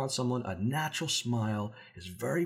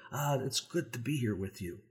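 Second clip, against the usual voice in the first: softer, sincere friendly greeting; glad to be here; 5 dB quieter than usual. Shown as a demonstration. Coach shows he likes the other person's company, glad and sincere. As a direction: let quiet pleasure show in the greeting. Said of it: "say something in a way that shows that".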